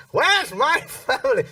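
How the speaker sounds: put-on a lost old man calling for his family; lost, confused elderly singer. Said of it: "it's him".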